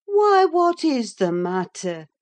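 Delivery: loud, high startled question; crying out. A narrator's reading. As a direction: call out in alarm, starting high. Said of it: "cried I".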